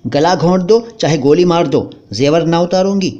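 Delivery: wife defying the robbers; defiant wife. Acted. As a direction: refuse them to their faces.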